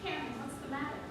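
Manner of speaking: soft, restrained acted dialogue; hushed stage drama.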